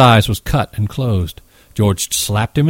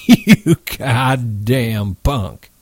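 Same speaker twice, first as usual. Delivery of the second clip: contemptuous; much slower than usual. Acted. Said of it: "he said".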